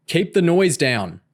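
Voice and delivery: loud, slow shout; yelling. A narrator's reading. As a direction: yell at the girls to hush. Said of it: "John yelled".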